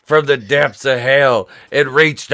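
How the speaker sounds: loud, slow, hammed-up doom commentary; wrestling commentator. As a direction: call it like a horrified ringside announcer. Mock wrestling commentary on cat.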